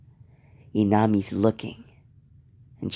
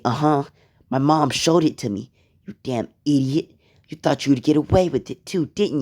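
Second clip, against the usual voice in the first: higher, sharp scolding; girl scolding the boy, higher and sneering; angry scolding; 5 semitones higher, 4 dB louder than usual. Acted. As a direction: tear into him for lying.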